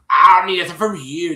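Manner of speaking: loud, high mimicked brush-off; disrespectful retort. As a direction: throw it back rudely, imitating her. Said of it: "Just being really disrespectful".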